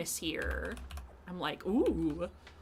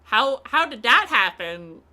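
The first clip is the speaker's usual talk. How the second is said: townsfolk amazed; 4 semitones higher, 15 dB louder than usual. Retold or imitated. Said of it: "Everybody in town is gonna be like".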